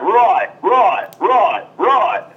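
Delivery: tossing off "right" like an Aussie; Australian accent. Shown as a demonstration. Host jokes how accents stay funny, Australian accent. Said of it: "in, like, an Australian accent".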